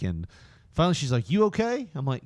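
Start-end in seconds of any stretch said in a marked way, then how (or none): 1.3-1.9 bus driver voice. Retold or imitated.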